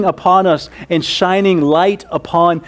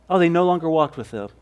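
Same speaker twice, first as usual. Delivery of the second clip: casual, loose reading; 2 semitones lower, 5 dB quieter, much faster than usual. Shown as a demonstration. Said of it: "it just sounds kind of loose".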